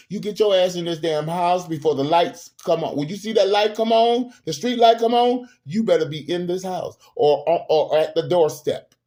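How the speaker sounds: acted telling-off, rising in pitch midway; scolding parent. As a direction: lay down the house rules like a parent. Voices a parent laying down rules.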